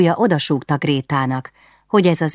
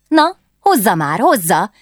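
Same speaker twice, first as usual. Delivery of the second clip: higher, pushing hurry-up; impatient urging; 6 semitones higher, 4 dB louder than usual. Acted. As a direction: hurry him along eagerly. Princess urges dancing master.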